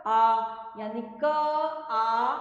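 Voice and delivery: आ held long and level, loud; teacher sustaining the vowel आ; vowel demonstration. Shown as a demonstration. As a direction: sound out क and आ slowly, one at a time. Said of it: "इसका उच्चारण कैसे होएगा".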